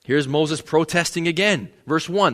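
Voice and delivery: ordinary delivery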